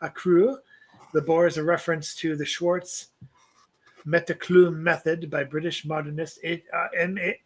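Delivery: reads the poem aloud in a light put-on accent; lightly accented poetry recital to a podcast co-host; poem reading accent. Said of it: "I seem to read better when I do this accent".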